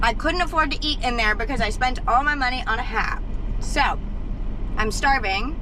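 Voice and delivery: talking through a mouthful; chewing while talking; mouth full. Real, not acted. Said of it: "I'm talking with my mouth full".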